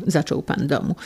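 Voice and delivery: ordinary delivery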